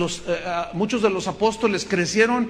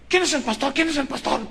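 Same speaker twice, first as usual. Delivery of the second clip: aggressive; 6 semitones higher than usual. Retold or imitated.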